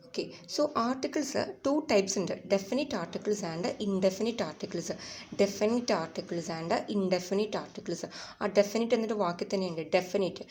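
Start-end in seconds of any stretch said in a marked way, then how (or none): 2.5-4.9 slow, carefully spaced English phrase; slow teaching read. Shown as a demonstration. Teacher dictating slowly to students. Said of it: "slow dictation". 5.4-8.0 slow, carefully spaced English phrase; slow teaching read. Shown as a demonstration. Teacher dictating slowly to students. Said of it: "slow dictation".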